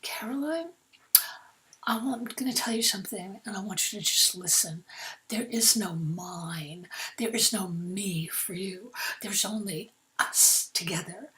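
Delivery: lightly voiced boyfriend, drawn up tall and measured; controlling boyfriend. Controlling boyfriend lays down law.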